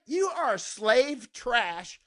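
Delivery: high, slow sneer; scornful retort to a gun critic; contemptuous retort. Retold or imitated. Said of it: "I'm like".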